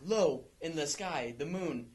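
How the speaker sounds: half-serious theatrical verse delivery; fake Shakespeare monologue. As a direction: declaim it like mock Shakespeare, breaking into a laugh at the end. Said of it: "like, his fake Shakespeare monologue".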